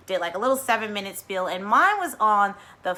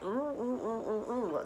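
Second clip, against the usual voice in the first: soft cooing ooh; 2 semitones higher, 9 dB quieter than usual. Retold or imitated. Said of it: "I'm like".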